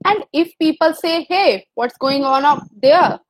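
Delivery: slow, drawn-out poem reading; poem recitation. Acted. Teacher reads the poem aloud to the class, slow and measured. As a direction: read each line slowly, as a poem.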